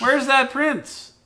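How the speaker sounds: storyteller voice. Pretend. Parent narrates puppet show dramatically.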